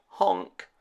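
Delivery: sniffing. A narrator's reading. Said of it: "he sniffed".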